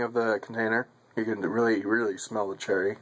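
speaking while smoking pipe; talking around a pipe. Real, not acted. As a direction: pipe clenched in teeth. Seen 3: Pipe stem held in mouth corner while talking from 0.6s.

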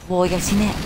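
high, loud amazed whoa; excited whoa. Real, not acted. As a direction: shout it out in amazement. Amazed at grenade.

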